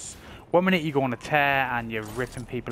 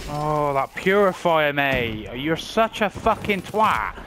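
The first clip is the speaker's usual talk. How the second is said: angry outburst; 4 semitones higher, 6 dB louder, slower than usual. Real, not acted. Killed by purifier weapon.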